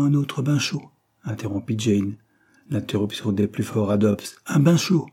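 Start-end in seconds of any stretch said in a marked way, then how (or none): 4.5-5.1 higher scornful echo, rising at the end; ironic. A narrator's reading. Servant echoing the hot-bath advice, ironic. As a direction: throw the words back in ironic disbelief. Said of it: "répéta-t-elle ironiquement".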